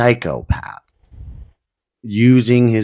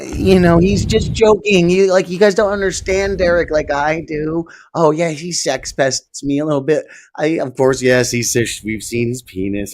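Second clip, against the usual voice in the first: higher mocking voice of a naive defender; lightly voiced sarcastic apologist brushing it off; a mocking take on a friend defending Derek; Lemmy impression; 5 semitones higher than usual. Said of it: "I've been doing a little Lemmy impression".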